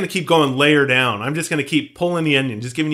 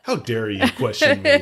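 high, indignant tyrant shriek; pompous shrill tyrant; 9 semitones higher than usual. Pretend. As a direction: play an outraged tyrant, shrill. Mock outrage at co-host.

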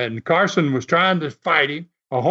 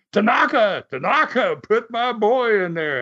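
retold screaming; 6 semitones higher than usual. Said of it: "So Homer starts screaming".

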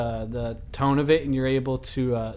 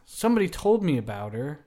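NPC voice; 5 semitones higher than usual. Acted. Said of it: "he goes".

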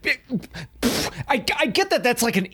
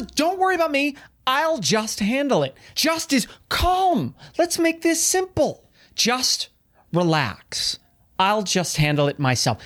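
calm easygoing person; 5 semitones higher than usual. Acted.

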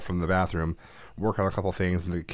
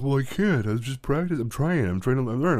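higher voice, a hint of a flustered boy; lightly voiced bashful son; embarrassed kid; 6 semitones higher than usual. Imitating son's embarrassed excuse.

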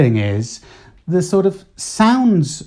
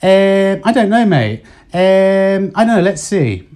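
hesitant English, pitched higher on the ums; Spanish-style hesitation; 6 semitones higher than usual. Shown as a demonstration. Showing his Spanish habit creeping into English, with a higher-pitched hesitation. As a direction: um with a Spanish lift. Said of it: "I'd be saying something like".

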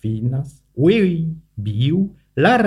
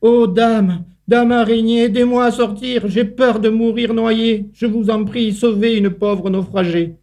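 high, begging little ant; crying out for help; 8 semitones higher than usual. A narrator's reading. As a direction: cry out to the spider for rescue. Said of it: "Et elle lui cria dans son latin".

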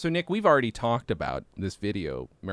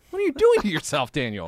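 mock alarm; 2 semitones higher, 4 dB louder than usual. Teasing Dan about his drinking, mock alarm. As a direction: rise up in hammed-up alarm. Mock concern repeated louder.

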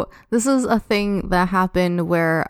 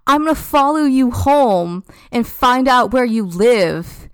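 mock screamed threat; 4 semitones higher than usual. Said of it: "she keeps screaming".

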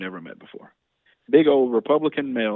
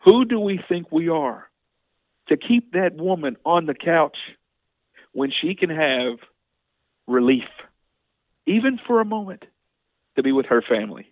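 slow, rising, louder indignant plea; impassioned plea; 4 semitones higher, 3 dB louder than usual. Retold or imitated. Lawmaker pleading with Leland to help sick families, slow and impassioned. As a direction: plead slowly, building with outrage. Passionate retort recalled to Leland.

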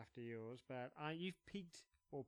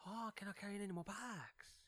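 mock girlfriend voice; 5 semitones higher, 5 dB quieter than usual. Mocking the shopping girlfriend.

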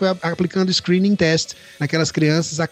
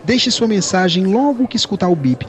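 customer service voice. Retold or imitated. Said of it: "atende a secretária eletrônica dizendo".

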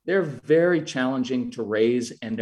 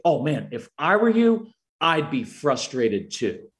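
put-on meet the child's feeling with matching intensity. Shown as a demonstration. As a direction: empathetic intensity to a frustrated child. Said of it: "I give them intensity and I say".

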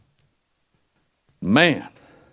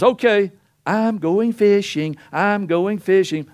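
Peter voiced; 4 semitones higher, slower than usual. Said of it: "So Peter says".

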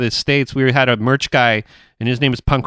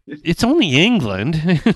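exasperated disbelief; 4 semitones higher than usual. Retold or imitated. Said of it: "it was like".

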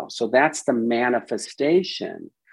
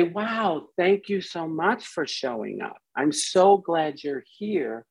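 welcoming voice; 3 semitones higher than usual. Retold or imitated. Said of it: "So we say".

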